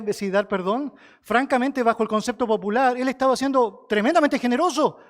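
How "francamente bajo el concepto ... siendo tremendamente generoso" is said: forceful preaching. Real, not acted. Preacher builds to peak.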